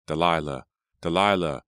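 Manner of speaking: loud, building call of a name; desperate calling. A narrator's reading. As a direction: call out to someone who cannot answer. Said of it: "He called her name again and again".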